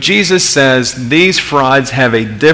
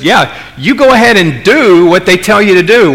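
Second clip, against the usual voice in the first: higher, louder, dripping mock permission; sarcastic; 5 semitones higher, 4 dB louder than usual. Pastor voices Jesus mocking the Pharisees' teaching, sarcastic. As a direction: say it like you don't mean it at all. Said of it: "Jesus is being sarcastic here".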